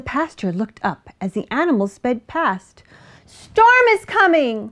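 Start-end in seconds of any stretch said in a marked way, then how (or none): 3.3-4.7 high, loud duck alarm; raised duck voice crying a warning; quacking duck. A narrator's reading. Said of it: "Duck quacked".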